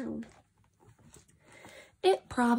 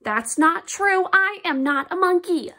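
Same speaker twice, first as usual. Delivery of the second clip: indignant; 4 semitones higher, 4 dB louder than usual. Acted. Reader protesting, higher.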